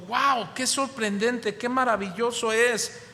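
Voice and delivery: a man gushing with amazement at the visitor; amazed exclamation. Retold or imitated. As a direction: gush over how marvellous it is. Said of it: "este hombre exclamó y dijo".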